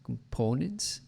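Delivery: COMPONENTS with a pure Portuguese o in PO. Retold or imitated. Coach echoes the learner, Portuguese o in COMPONENTS. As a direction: imitate COMPONENTS with a foreign long o. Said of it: "sounds like a Portuguese o".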